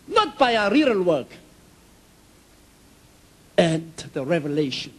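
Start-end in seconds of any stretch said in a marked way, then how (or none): 0.1-1.3 God's voice. Retold or imitated. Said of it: "He said".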